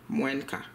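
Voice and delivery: moins quart with the N clearly sounded, mwɛnk a; nasal N shown. Shown as a demonstration. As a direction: let the N of moins ring into quart. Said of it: "You heard the N?".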